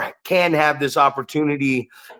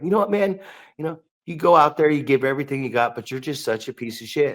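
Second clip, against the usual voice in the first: polite insult; faster than usual. Retold or imitated. Imitating someone insulting a wrestler nicely, polite. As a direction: deliver the insult gently, voice easing down. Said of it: "he said it politely".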